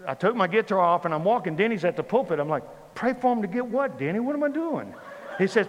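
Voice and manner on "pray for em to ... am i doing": higher-pitched bewildered questions; mock-panicked confusion; baffled questioning. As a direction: ask as if completely lost.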